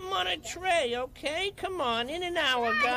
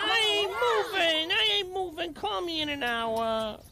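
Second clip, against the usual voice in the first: stubborn refusal; 3 semitones higher than usual. Acted. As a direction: dig in and drag the words out. Stubborn camper refuses to get up.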